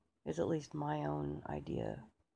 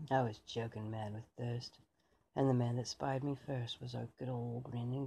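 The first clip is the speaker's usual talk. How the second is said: tipsy British soldier. Acted. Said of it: "who'd maybe had a few beers".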